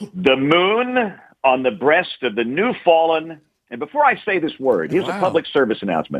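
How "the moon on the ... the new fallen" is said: slow, big announcer voice, moon drawn out. Reading a line aloud right after announcing a big announcer voice. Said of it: "Let me get my big announcer voice on here".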